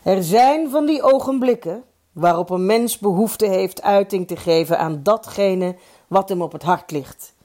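formal speech. A narrator's reading. The chairman addresses the club at the celebration, lightly declaimed formal speech. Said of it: "kon de voorzitter zijn feestrede afsteken".

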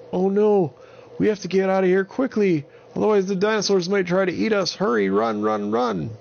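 high, loud and fast panic; panicked. Acted. Holly urging the others to flee from the dinosaurs, high panicked. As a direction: hurry everyone away in fear. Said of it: "Holly said".

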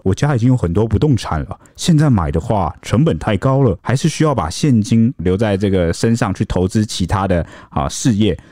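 lightly voiced smooth young man; a hint of a charming tenant; handsome tenant voice. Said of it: "你刚刚是在模仿帅房客的声音".

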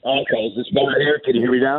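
muffled, like talking inside a fishbowl; bad connection, hollow and muffled. Real, not acted. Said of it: "you do sound like you're in a fishbowl".

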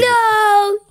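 loud put-on silly monster voice; grumpy guitar voice. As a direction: bark it out as a cranky guitar. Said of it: "The guitars said that?".

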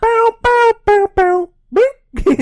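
high, loud cartoon beeps; squeaky beep-boop noises; high mock sound effect. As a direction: chirp it like a toy.

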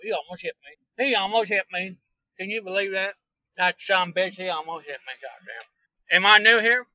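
folksy put-on hillbilly host voice; hillbilly character. Hillbilly Earl greeting stream viewers and rambling, folksy put-on drawl. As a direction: welcome folks like a backwoods tour guide. All right, I'll put them back in.

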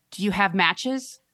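put-on slow monotone creepy little girl; flat, eerie, slow question; creepy monotone child. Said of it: "monotone and deeply, with a voice somewhat unlike her own".

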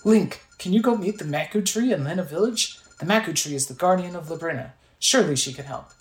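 lightly voiced guardian, animated pitch; mildly theatrical game-character voice; Impa, earnest. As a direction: urge the hero onward kindly. Voices Impa giving directions.

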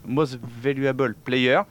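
slow English pronunciation amid French; English phrase. Real, not acted. Host explaining MVP to listeners, slow English pronunciation. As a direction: spell out the English term slowly. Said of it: "fais-le en français".

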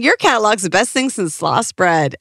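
put-on Southern accent. Retelling the childhood catalog prank call, in a Southern accent. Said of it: "In a Southern accent".

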